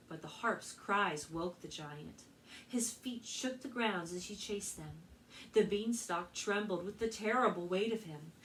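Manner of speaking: lively read-aloud storytelling voice; story narration. A narrator's reading. Librarian reading Jack and the Beanstalk to children, storytelling.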